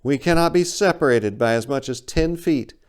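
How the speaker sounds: a hint of a bird voice laying down the rule; bird stating flatly. Big bird coldly reminding the narrator, lightly voiced. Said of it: "the big bird stated flatly".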